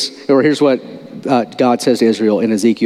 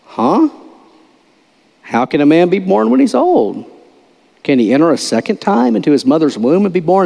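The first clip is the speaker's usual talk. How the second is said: sarcastic; 3 semitones higher than usual. Retold or imitated. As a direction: play Nicodemus as a sarcastic doubter. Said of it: "It's like sarcasm".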